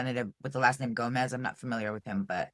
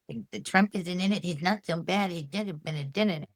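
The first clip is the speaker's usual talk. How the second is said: higher, sneering mock-naive voice; mocking Trump defenders; 5 semitones higher than usual. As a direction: parody the apologists' excuses. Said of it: "for all those who".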